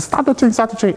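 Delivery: high-pitched retold cry for help; re-enacted scream to halt a train; mock scream. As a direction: cry it out high, without full volume. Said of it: "I'm screaming".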